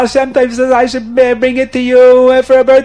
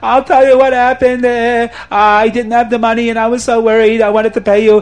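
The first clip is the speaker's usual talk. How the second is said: hammed-up terrified wailing, raised pitch; crying, pleading confession; 4 semitones higher, 4 dB louder than usual. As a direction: blurt it out loudly, begging for mercy. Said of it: "he's crying and he's screaming".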